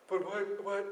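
baffled what. Retold or imitated. Disciples baffled by Jesus.

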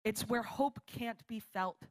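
slow, deliberate reading of a quote; measured quotation. Real, not acted. Preacher quotes a definition of hard, slow measured delivery. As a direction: let each phrase land, slowly.

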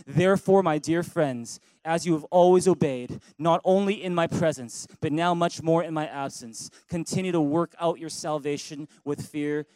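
reading scripture out loud with the congregation; loud call-and-response scripture read; loud group reading. Shown as a demonstration. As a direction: proclaim it loudly together. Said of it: "Read it with me in a loud voice".

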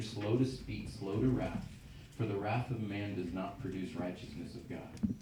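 measured, deliberate Bible reading; scripture reading. Acted. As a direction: read the verses out to the congregation. Reads James 1:19-25 aloud.

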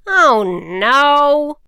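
high, loud cry of dismay; dismayed witch. Acted. Witch realizing her wand is gone, dismayed. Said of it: "but it was gone".

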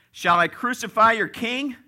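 high, loud incredulous question; loud challenge. Acted. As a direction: call it out to a crowd. Acting out Pilate's challenge to crowd.

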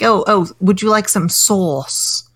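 slow, hammed-up English accent imitation; drawn-out posh English sauce voice; mock posh English. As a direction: sister obnoxiously faking an English accent. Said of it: "very sort of obnoxiously saying".

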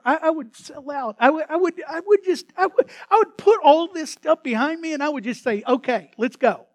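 high, loud, building promise; eager vow. Acted. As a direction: work yourself up to selling out. Believer's eager vow acted.

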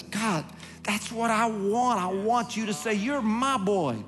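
high, slow yearning; heartfelt high longing prayer; yearning plea. Acted. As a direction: plead with God, drawn out and lifted. Preacher voices his own longing.

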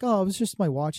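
high mock-innocent voice; crackhead impression. Crackhead explains himself to dad, high mock-innocent voice. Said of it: "he goes like".

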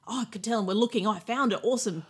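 mildly excited retold yell; imitated excited outburst. Co-host imitating a player who found the idol, mildly excited. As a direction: act out a find with light excitement. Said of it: "Excited, yell out".

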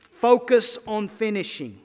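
Focus punched out loud; loud exhortation. Real, not acted. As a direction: drive the call home. Rallying call to finish.

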